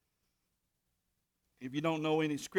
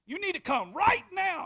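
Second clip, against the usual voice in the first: higher, louder frantic plea; panicked repeat; 13 semitones higher, 7 dB louder than usual. Retold or imitated. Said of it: "She said".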